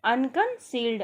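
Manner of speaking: अनकंसील्ड stretched slowly, syllable by syllable; slow dictation of अनकंसील्ड; slow, drawn out. Shown as a demonstration. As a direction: drill अनकंसील्ड slowly for the class. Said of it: "अनकंसील्ड को हिंदी में कहते हैं".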